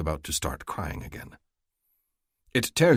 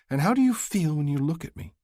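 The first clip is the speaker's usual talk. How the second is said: higher female voice, rising to a startled question; can't believe what he's saying; bewildered Stacy; 10 semitones higher than usual. Acted. Stacy asks softly.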